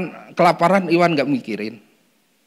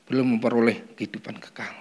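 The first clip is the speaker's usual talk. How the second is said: whisper; 4 semitones lower, 6 dB quieter than usual. Real, not acted. Preacher softens to a whisper.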